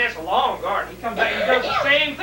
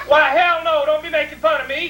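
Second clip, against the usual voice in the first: father's gruff retort; 5 semitones higher than usual. Retold or imitated.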